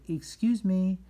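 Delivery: high, loud singsong excuse me; polite apology. Shown as a demonstration. Teacher models what you say afterwards, polite apology. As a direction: model it brightly for children to copy.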